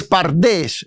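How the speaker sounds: "pardés" said slowly with stress on the final syllable "dés"; careful pronunciation. Shown as a demonstration. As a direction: spell out "pardés" aloud, slow, stress on "dés". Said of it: "mencionarla, mm, audiblemente".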